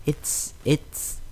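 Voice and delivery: breathless, hushed stammer; mumbled. A narrator's reading. Frightened filly mumbling at the robot, hushed. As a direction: barely get the words out. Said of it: "she mumbled".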